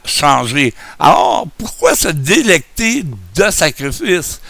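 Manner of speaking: speaking without dentures; gummy toothless speech. Real, not acted. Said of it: "comme un bon vieux vieillard édenté".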